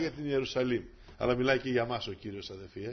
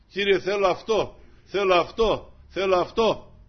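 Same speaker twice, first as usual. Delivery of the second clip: higher, louder insistent plea; pleading believer; 6 semitones higher, 9 dB louder, slower than usual. Acted. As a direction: beg the Lord insistently. (ικετευτικά, δυνατά)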